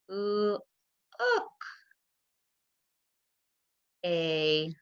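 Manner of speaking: high, drawn out with long pauses; excited child's line. Shown as a demonstration. Teacher modeling the dialogue as her daughter, excited. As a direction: read it as she'd yell it, excited. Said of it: "to show that Kyle was, like, super excited".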